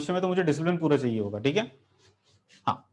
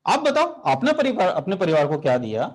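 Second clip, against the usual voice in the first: carbon asking back. Acted. Carbon asks nitrogen back.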